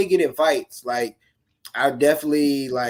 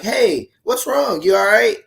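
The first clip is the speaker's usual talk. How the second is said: much higher, drawn-out concerned question; concerned check-in; 8 semitones higher, 6 dB louder than usual. Acted. Somebody noticing a hurting student, concerned check-in. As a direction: act out someone checking on a struggling kid. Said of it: "if maybe somebody asked me".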